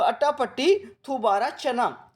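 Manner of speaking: slow, spelled out for memorizing; slow dictation pace; slow and deliberate. Shown as a demonstration. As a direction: drill it slowly so students repeat. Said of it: "मैं धीरे धीरे इसलिए बोल रहा हूँ".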